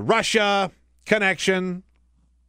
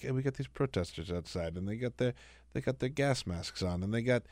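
low, much softer mumbled Trump impression; mumbling Trump; 7 semitones lower, 12 dB quieter than usual. Host imitating Trump mumbling at the rally, low and much softer. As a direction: mumble it low, barely audible. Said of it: "like, mumbles".

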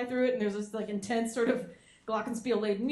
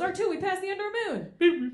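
higher, surprised pilot voice; flustered pilot; 8 semitones higher than usual. Retold or imitated. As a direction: realise you overshot the moon. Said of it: "and he goes".

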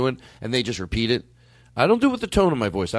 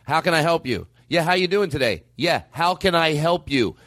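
stubborn repetition. Shown as a demonstration. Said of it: "I go".

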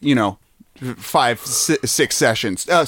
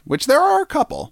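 quick whispered aside; 13 semitones higher than usual. Real, not acted.

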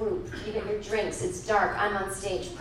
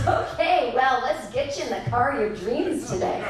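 breezy clerk. Retold or imitated. Clerk carries on cheerily.

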